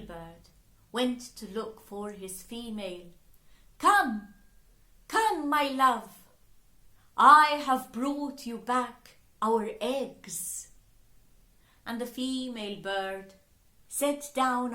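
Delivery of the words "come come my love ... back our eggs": louder, joyful call to his mate; calling out happily. Acted. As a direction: call across the beach with glad news.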